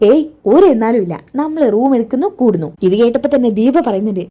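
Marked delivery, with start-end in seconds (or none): 0.1-2.7 higher, insistent dismissal; mildly insistent, pitched up; brushing off objection. Acted. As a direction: cut off the hesitation playfully. Boyfriend brushes aside her hesitation.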